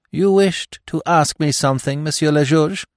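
a composed widow asks the judge; widow's voice. Acted. Widow politely asking the magistrate.

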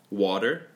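Water with a quick flapped d sound in the middle; fast American water. Shown as a demonstration. Teacher shows the fast American way, flapped t. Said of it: "빨리 말할 때, when you're speaking quickly".

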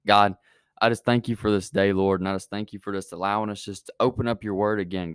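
earnest spoken prayer to God. Acted. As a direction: pray sincerely aloud for the group. Leads a prayer.

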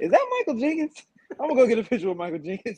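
excited realization. Retold or imitated. Spotting Michael Jenkins too late, a giddy, fast excited rush. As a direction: rush it out high like a starstruck fan.

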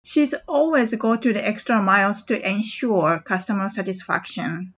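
brisk teacher read. Shown as a demonstration. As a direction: say it at natural speed for learners. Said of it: "ちょっと早めに言ってみます".

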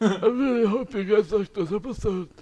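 laughing through a teeth grill; wearing teeth grill. Real, not acted. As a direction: speak with a grill in your mouth. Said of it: "finish the ep like this".

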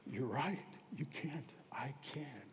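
very soft, tender reassurance; gentle answer. Retold or imitated. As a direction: answer gently, like God comforting a broken man. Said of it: "I heard gently".

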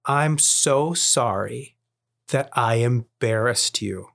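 slow, gentle retold apology; earnest dad owning his mistake; sincere apology. Dad retells sincere apology to son.

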